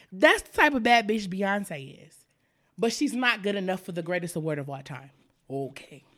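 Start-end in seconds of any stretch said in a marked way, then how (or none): 2.8-6.0 winded, fading to a whisper; breathless and spent; out of breath. Real, not acted. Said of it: "I'm out of breath again".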